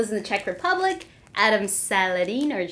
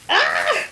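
short, high "ah" of fright; startled high squeak; scared yelp; 14 semitones higher, 4 dB louder than usual. Real, not acted. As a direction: yelp as if nearly cut. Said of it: "I'm actually scared of cutting myself".

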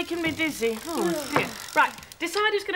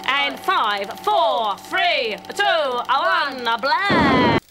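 loud countdown; 6 dB louder, much slower than usual. Acted. Counting in the cartoon.

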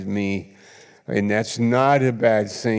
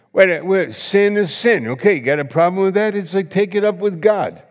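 forceful preaching; 7 semitones higher, 4 dB louder than usual. Real, not acted. Preacher rebuts critics forcefully.

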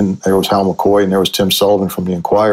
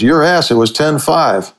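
higher, drawn-out mock protest; mock indignant retort; 6 semitones higher, slower than usual. Coach disputing the score with the columnist, mock indignant. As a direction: retell a stubborn objection, pitched up and slow. Retold argument over the final score.

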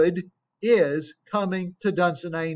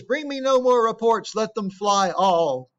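commanding Macbeth; 2 semitones higher, 3 dB louder than usual. Acted. Macbeth rejecting reports, read aloud.

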